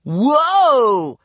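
high, loud cry of surprise; drawn-out alarmed whoa; taken aback, voice shooting up; startled. A narrator's reading. Boy startled by the shouting.

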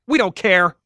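loud, high-pitched shout; defiant yell. A narrator's reading. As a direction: holler it for any eavesdropper. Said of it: "he yelled".

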